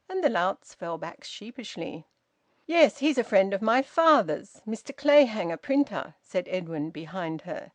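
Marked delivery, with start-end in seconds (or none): 2.7-6.1 louder, raised insistence; firm vouching. A narrator's reading. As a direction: back her up with weight. Edwin vouching for old man.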